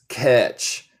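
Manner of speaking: "catch" with the T not sounded separately; silent T. Shown as a demonstration. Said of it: "Nota el T es, es muda".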